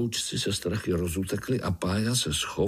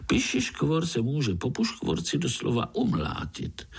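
very high, gushing, bubbly chatter; chattering frog; 6 semitones higher than usual. Acted. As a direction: Prague tree frog babbling nonstop. (švitořivá vysoká rosnička)

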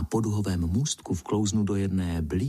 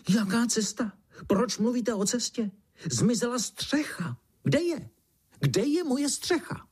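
much higher, squealing beetle voice rising to a shriek; a panicked insect squealing for its lost roof; 12 semitones higher than usual. Acted. The black beetle shrieks at the boy and ant, high squeal. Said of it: "ozvalo se vřískání".

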